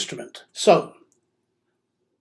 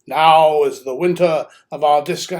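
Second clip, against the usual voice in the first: booming stage recitation, a bit louder; Shakespearean actor; 3 semitones lower, 3 dB louder than usual. Retold or imitated. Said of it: "how a Shakespearean actor can fill a theatre".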